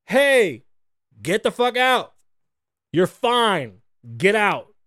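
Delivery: loud, impatient mock DJ; hammed-up DJ shouting; DJ yelling. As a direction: bark them out of the pit. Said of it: "she's like".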